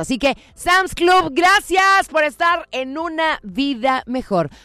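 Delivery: upbeat announcer pitch, pushed; energetic station announcer; radio ad read. Acted. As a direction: sell it like a radio spot. Radio time check and ad read.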